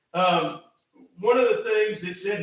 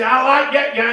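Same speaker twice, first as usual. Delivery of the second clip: imitating his dad; 5 semitones higher, 10 dB louder than usual. Dad voiced in retold story.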